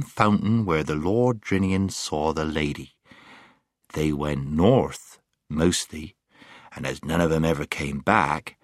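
slow, lingering gloomy drawl; very slowly. Acted. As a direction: draw each word out heavily. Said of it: "said the Marshwiggle very slowly".

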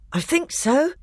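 put-on high-pitched, winded boy; panting. A narrator's reading. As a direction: answer as if catching your breath. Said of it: "panted Edmund".

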